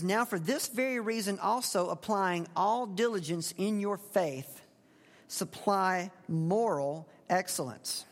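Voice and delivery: slow, deliberate verse reading; scripture reading. Acted. Preacher reading the verse to his congregation, slow and weighty. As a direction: read the verse slowly and weightily.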